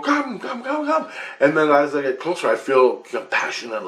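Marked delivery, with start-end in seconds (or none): 0.0-1.1 very high, quick calling; imitated beckoning. Heads in the light call the couple up, high imitated beckoning. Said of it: "they're all going".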